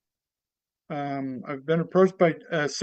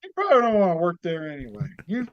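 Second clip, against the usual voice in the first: comedy character act. Acted. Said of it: "give us a little bit of your act, of your character".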